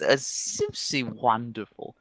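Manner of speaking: lightly voiced theatrical elf; a hint of camp elf; flamboyant elf. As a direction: gush slowly, lingering on the praise. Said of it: "He goes".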